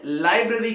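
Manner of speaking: लाइब्रेरी with a full "bray" in the middle; common mispronunciation. Shown as a demonstration. Teacher imitating students' common error, लाइब्रेरी with a long "bre". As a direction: say लाइब्रेरी as lie-BRAY-ree. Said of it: "क्या कहते हैं?".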